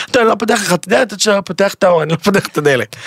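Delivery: a hint of a frightened old woman, quick; lightly mock the panicky old lady refusing the door; scared old lady. Refusing to open the door to his date, a lightly voiced scared old woman. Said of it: "כמו הזקנה כזאת עם פחדנית".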